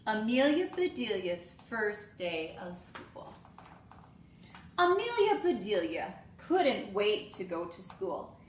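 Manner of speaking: lively storybook read-aloud with voiced characters; reading to children. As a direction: read it like story time for little kids. Teacher reads picture book aloud.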